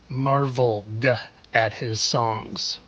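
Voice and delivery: MARVELED slowly drawn out and set apart; pointed emphasis. Shown as a demonstration. Hinting at a pun to viewers, pointed emphasis on Marveled. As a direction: lean on Marveled, then pause.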